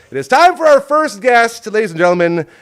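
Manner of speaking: high, booming announcer shout; ring-announcer style, loud and high; guest introduction. Real, not acted. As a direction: call out to the whole house. Host introduces first guest.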